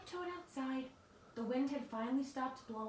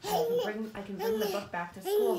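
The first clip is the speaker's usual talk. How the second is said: loud call; 8 semitones higher, 8 dB louder than usual. Real, not acted. Loud aside to child.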